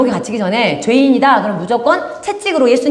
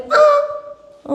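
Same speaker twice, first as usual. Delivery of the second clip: demon's cry. Acted. Demon cries out again.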